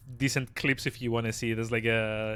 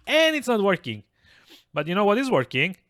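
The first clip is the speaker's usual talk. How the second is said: exasperated; 8 semitones higher, 5 dB louder than usual. Real, not acted. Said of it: "frustrated with voices".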